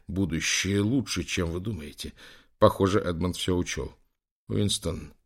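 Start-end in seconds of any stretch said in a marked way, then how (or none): 4.5-5.1 trembling whisper. A narrator's reading. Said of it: "прошептал Лэнгдон дрожащим голосом".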